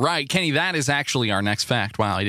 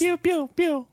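laser pews; 12 semitones higher, slower than usual. Retold or imitated. Imitating game sound.

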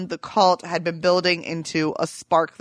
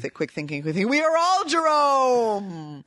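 retold announcement; 5 semitones higher than usual. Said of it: "He's like".

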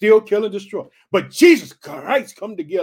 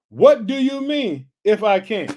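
Jesus rebuking; 3 semitones higher, 7 dB louder, slower than usual. Retold or imitated. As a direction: throw the doubt right back at him. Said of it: "Jesus backed it up".

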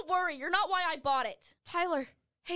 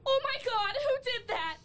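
frightened cry; 5 semitones higher than usual. Acted. Shocked at attack.

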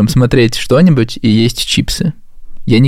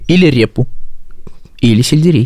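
whispering. Acted. Teasing list of diet snacks.

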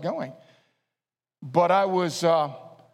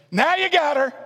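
laughing; 8 semitones higher, 5 dB louder than usual. Acted. Playful aside in coy-glance story.

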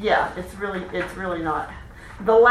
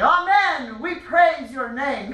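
strong, proud chant, slow on praise; Black Panther voice; 4 semitones higher, slower than usual. Shown as a demonstration. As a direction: call it out like a proud king. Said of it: "our African Black Panther voice".

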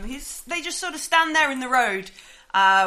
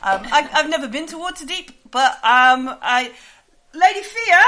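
character voice retry; 2 semitones higher, 5 dB louder than usual. Acted. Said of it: "I'll do it in a bit".

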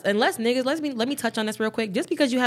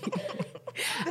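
breathy tickled laugh; 10 dB quieter than usual. Real, not acted. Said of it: "Don't tickle me".

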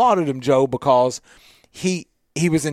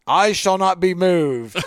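slow solemn scripture line; mock biblical; slower than usual. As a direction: intone it like an old hymn, slowly. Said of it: "Coach can go extra biblical".

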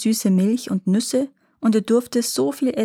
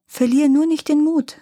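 put-on encouraging boy; 8 semitones higher, 3 dB louder than usual. A narrator's reading. Brother encourages his despairing sister.

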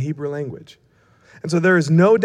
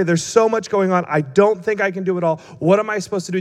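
mock panicky rambling, a little raised; imitated panic; 2 semitones higher than usual. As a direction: spill out worries as if nearing panic. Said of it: "she is literally edging into a panic attack".

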